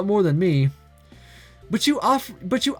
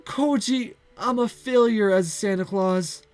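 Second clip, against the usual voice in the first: tearful; 6 semitones higher, slower than usual. Acted. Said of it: "loud sobs escape her".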